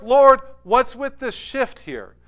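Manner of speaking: puzzled question. Acted. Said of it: "In other words".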